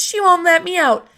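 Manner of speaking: Frances yelling for Grandma, loud and high; shout. A narrator's reading. Frances tattles loudly to Grandma, shouting. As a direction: bellow it as a tattling boy. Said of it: "shouted Frances".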